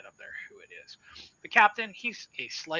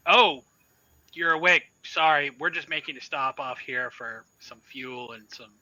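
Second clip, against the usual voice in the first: fake cheerful; 10 dB louder than usual. Captain covering after swearing.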